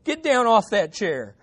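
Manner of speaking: firm call over the shouting; interrupting doctor. Acted. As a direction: order an unruly patient down. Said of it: "interrupted the doctor over the man shouting".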